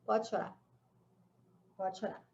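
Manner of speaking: quiet, gentle and reassuring; soft permission. Retold or imitated. To the sobbing girl in the wheelchair, soft and gentle. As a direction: let her know it's safe to cry. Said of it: "e eu falei".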